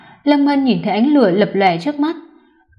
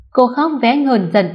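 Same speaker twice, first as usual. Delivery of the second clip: usual speaking voice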